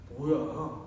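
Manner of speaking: wife mocking an unhelpful husband, angry. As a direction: throw him out in a mock rage. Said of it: "막 그럴 거예요".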